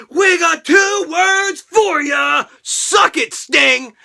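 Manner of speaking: slow, loud catchphrase shout; mock Degeneration X taunt, slow and loud. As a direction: call it out like the crowd chant. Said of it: "You know who came out?".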